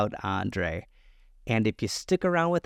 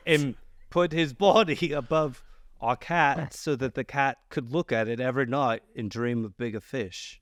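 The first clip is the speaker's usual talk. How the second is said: put-on botched Maine accent. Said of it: "how dare you butcher that accent".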